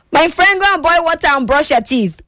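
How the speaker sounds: high, playful scolding. Real, not acted. Scolding listener about cold water.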